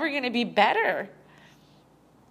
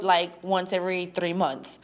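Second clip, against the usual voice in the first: laughing; 4 semitones lower than usual. Real, not acted. Vlogger admitting rare uploads, laughing. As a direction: laugh it off, embarrassed. Laughing at her own old habit.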